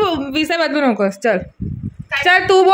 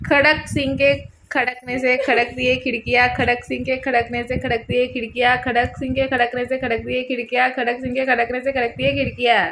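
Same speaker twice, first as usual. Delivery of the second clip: tongue twister demo; 3 semitones lower, 4 dB quieter than usual. Shown as a demonstration. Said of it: "मी बोलू दाखवलं".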